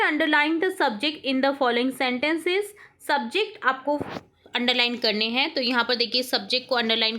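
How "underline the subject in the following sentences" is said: very slow, word by word dictation. Shown as a demonstration. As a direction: read it out slowly for the class to write. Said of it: "teacher reads instruction". (धीमे-धीमे बोलकर लिखवाना)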